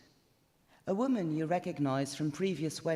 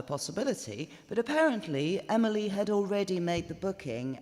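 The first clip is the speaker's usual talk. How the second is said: Reg Skinner chatting. Acted. Reg drones on to Ashley the bridesmaid, mildly pompous. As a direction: lecture the bridesmaid with eager trivia. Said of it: "Let's hear what they're saying".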